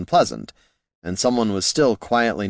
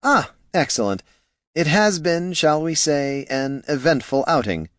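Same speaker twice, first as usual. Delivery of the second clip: high gnome voice; 7 semitones higher than usual. Acted. Flynn gnome voice.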